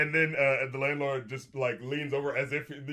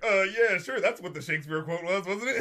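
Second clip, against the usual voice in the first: mock breezy bluff, pitched up; bluffing agreement; 5 semitones higher, 4 dB louder than usual. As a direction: imitate an actor faking certainty. Acts out clueless actors bluffing.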